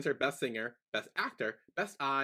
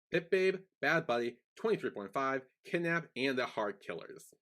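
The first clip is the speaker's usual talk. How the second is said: out of breath. Real, not acted. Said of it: "God, I'm out of breath now".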